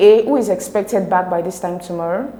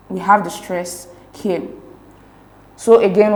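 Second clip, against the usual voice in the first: ordinary delivery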